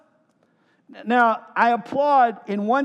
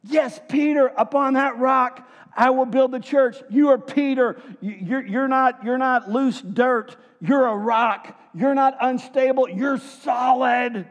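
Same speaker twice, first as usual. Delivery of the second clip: Jesus delighted, naming Peter the rock; affirming Jesus; 6 semitones higher than usual. Retold or imitated. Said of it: "And Jesus goes".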